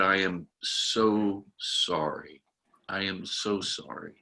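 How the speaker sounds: gently apologize, letting it sink in; soft sincere apology. Retold or imitated. Pastor apologizing to a crying Jan, soft and slow.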